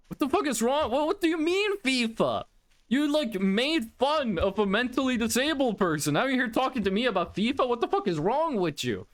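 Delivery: retold angry disbelief. Angry guy to friend who brought up fifa, retold outrage. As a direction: act out a guy baffled and mad. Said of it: "so mad".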